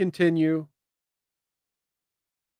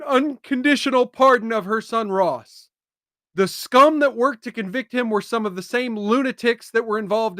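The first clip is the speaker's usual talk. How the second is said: raised, declamatory reading of a statement; emphatic post read-out; 3 semitones higher than usual. Real, not acted. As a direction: read the announcement out with punchy emphasis. Reads out a social media post.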